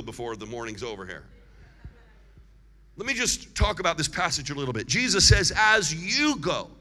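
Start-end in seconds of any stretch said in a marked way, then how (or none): 5.6-6.7 "you" drawn out and emphasized in "As you go"; slow the phrase and lean on "you"; stress on "you". Shown as a demonstration. Preacher quotes Jesus to the congregation, stressing "you". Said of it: "Put the emphasis on you".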